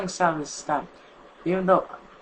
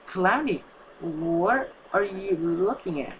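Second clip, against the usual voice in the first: fearful; 3 semitones higher, slower than usual. Acted. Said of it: "said in fear".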